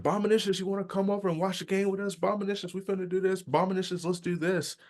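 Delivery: high, fast rambling voice; mock fast talker calling his name; fast-talking guy. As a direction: rattle it off quick and high. Cousin's fast-talking friend voiced.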